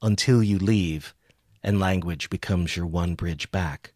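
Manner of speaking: slow, measured poetry reading; poem reading. Acted. Reads a poem aloud.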